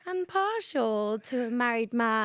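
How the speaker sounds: measured, lightly posh delivery; slow it down with a hint of a posh accent; imitating own posh audition-tape voice. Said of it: "Why did you do a posh voice".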